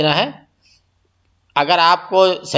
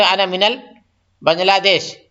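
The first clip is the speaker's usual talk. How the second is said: slow, careful Arabic model sentence; slow demo phrase; slower than usual. Shown as a demonstration. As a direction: spell out each word slowly for learners. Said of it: "بولے".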